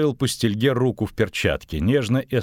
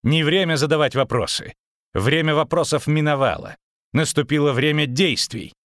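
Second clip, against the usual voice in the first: shouting; 7 semitones higher than usual. A narrator's reading. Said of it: "крикнул он".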